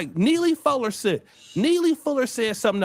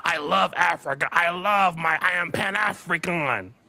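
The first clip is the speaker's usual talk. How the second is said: lower, slow mocking boast of loving Africa; mock the hollow claim; lightly mocking fake sincerity; mocking quote; 7 semitones lower, slower than usual. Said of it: "Y'all love to talk about how".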